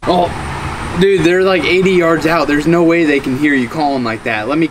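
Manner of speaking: excited loud newbie; almost shouting at his buddy. Acted. Newbie tells buddy to call.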